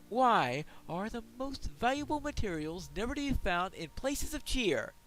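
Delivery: loud, hearty dwarf prospector. Acted. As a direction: boom it out like a proud dwarf. Voices the dwarf quest giver.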